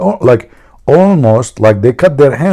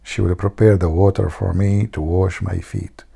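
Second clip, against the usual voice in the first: mock whisper; 3 semitones lower, 6 dB quieter than usual.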